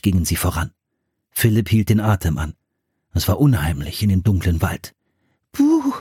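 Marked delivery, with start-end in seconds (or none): 5.5-5.9 Schreckruf. A narrator's reading. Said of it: "rief Anne plötzlich".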